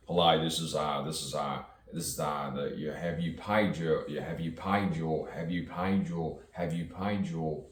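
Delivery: lightly robotic phone agent; robotic caller. Acted. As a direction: repeat it like a stuck bureaucratic recording. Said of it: "little robotic, aren't they?".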